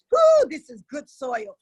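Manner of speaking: slow, loud, delighted cry; excited whoop. Real, not acted. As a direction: whoop it out with joy. Savoring her own words.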